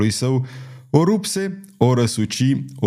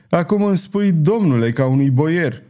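higher-pitched mock deference; mock the title with a raised, sneering lilt; 6 semitones higher than usual. A narrator's reading. Gypsy mocks being addressed like a boyar, sneering. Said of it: "rânji Belgoder".

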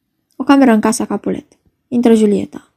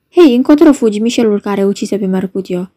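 calling out. Acted. Citizen calling after Mercutio's killer, calling out. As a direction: call sharply after a runaway.

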